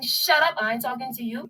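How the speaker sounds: retold shout. Candidate quoting the politician's rude shout. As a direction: reenact the insult he shouted at her. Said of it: "By him shouting".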